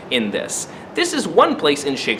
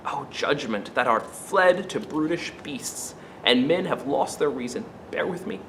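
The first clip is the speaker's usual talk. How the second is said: recited speech. Acted.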